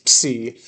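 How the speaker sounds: "psi" with the p sounded; right pronunciation. Shown as a demonstration. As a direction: start "psi" on a clear p. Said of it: "pronounce it like that with a P S".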